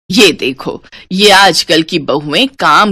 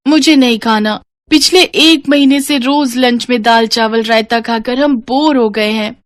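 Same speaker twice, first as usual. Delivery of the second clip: put-on higher, whiny child voice; child role; 3 semitones higher than usual. Child complains to mother about dal chawal again, higher and whiny. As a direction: complain like a bored kid.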